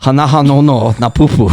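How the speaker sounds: put-on Asian accent, slightly hammed-up; mock Asian accent. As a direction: read it in a fake Asian accent. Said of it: "I'm doing an Asian accent with it".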